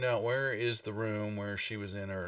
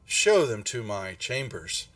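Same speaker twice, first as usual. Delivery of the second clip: raised, measured call of a host; slightly raised, commanding announcement; 5 dB louder than usual. Acted. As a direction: call it out grandly to your students. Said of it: "you hear a voice call out".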